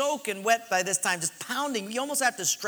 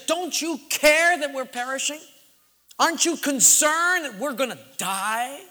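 raised, higher pleading; mock yell; 5 semitones higher, 3 dB louder than usual. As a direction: disciples yelling at sleeping Jesus. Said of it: "They yell at Jesus".

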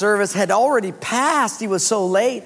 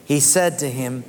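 slow, measured reading aloud; scripture reading; 3 semitones lower, slower than usual. Real, not acted. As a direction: lead a congregation reading the verse together, slowly. Reads scripture aloud with congregation.

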